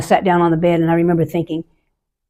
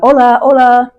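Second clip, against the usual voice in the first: housekeeper calling out; 6 semitones higher, 5 dB louder than usual. Retold or imitated.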